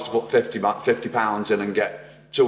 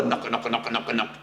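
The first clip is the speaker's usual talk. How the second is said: imitating an engine knock; knocking noise; 6 dB quieter than usual. Shown as a demonstration. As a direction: repeat knock like a rattle. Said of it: "It's like that".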